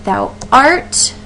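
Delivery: "thou" light, "art" stressed with a rising tune; iambic stress on art. Shown as a demonstration. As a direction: tap out the iamb, weak then strong. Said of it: "we have".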